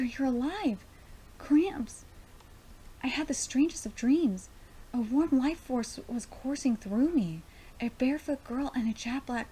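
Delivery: emphatic character reading, full of wonder; expressive storybook-like dialogue; dramatic manga reading. Acted. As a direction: read the awakening scene out with feeling. Reads manga dialogue aloud.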